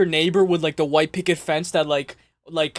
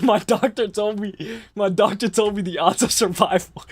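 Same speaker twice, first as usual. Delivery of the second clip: quoting chat joke; 3 semitones higher than usual. Retold or imitated. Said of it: "K Z said".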